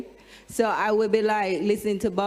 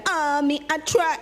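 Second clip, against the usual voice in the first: raw cry; 7 semitones higher than usual. Retold or imitated. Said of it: "and I was really like".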